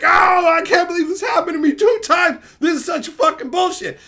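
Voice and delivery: hammed-up outraged hunter; hunter's outrage. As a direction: hunter cries out at his bad luck. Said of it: "And he's like".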